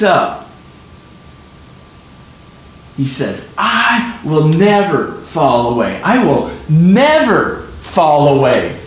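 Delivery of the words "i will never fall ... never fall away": Peter's insistent vow, slow and pressed; emphatic vow. Retold or imitated. Peter vowing to Jesus, emphatic and slow. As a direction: slowly hammer out the promise. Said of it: "Mark says that Peter speaks emphatically".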